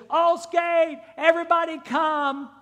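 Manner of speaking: Jesus calls everyone to come, loud and high; calling out. Retold or imitated. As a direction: call the whole crowd in. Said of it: "He calls".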